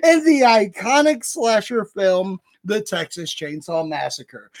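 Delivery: measured, dramatic promo reading; announcer read. Acted. Host reads haunt show announcement to listeners, announcer style. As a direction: read the show blurb with theatrical emphasis.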